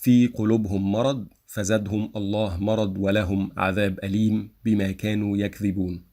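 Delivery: word by word, a small stop after each word; read without diacritics. Shown as a demonstration. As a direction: recite في قلوبهم مرض with each word cut off. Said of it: "First, I will read without diacritics".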